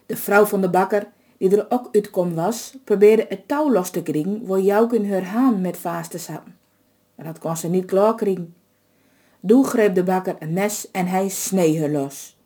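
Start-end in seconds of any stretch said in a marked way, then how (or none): none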